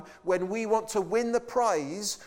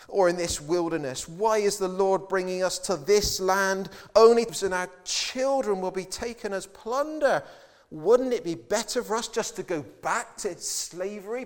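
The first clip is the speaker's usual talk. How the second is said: rising, louder whining complaint; complaining Israelites; 5 dB louder than usual. Retold or imitated. Preacher voicing the Israelites, loud grumbling complaint. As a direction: grumble it loudly like a crowd that wants to turn back.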